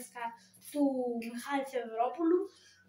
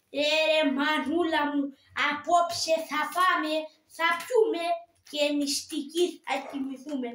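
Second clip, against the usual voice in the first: Karagiozis voice; 4 dB louder than usual. Shown as a demonstration. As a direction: belt it out like the cheeky poor puppet hero. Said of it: "Και η φωνή". (δυνατή, αργή φωνή Καραγκιόζη)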